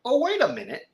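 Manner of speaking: high, swooping mock realization; reenacted "hang on" moment; dawning realization. Reenacts realizing who the actor is.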